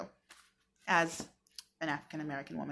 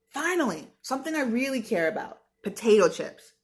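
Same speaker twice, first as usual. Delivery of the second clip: higher, eager, potato chips thrilled; excited kid voice; 3 semitones higher than usual. Shown as a demonstration. Teacher rereads the line as the child, excited. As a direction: sound like a kid who loves chips. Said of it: "Let's figure out who probably wrote this".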